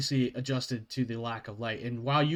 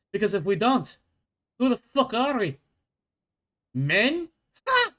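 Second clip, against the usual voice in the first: dwarf guard scolding; 4 semitones higher than usual. Acted.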